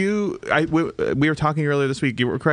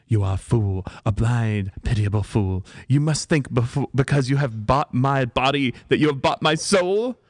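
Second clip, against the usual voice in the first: dramatic British declamation. Acted. Actress quoting her old play, melodramatic British. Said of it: "You must say that's dramatic".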